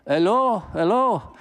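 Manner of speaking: high, loud hello hello to get attention; calling out. Retold or imitated. Cameraman banging on the truck, calling out loudly. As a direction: shout up at the truck driver.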